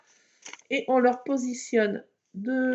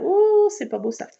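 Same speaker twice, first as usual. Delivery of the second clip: mock disgust; 8 semitones higher, 6 dB louder than usual. Mock disgust at ugly scrap.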